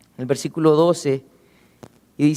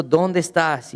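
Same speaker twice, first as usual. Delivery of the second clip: gentle question; slower than usual. Acted. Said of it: "No, Él no llega diciendo eso".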